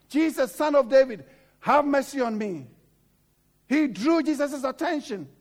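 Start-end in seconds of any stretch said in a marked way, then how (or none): 0.1-2.7 loud cry for mercy; retold shout. Blind beggar shouts to Jesus over the crowd, loud. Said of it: "the Bible said he shouted".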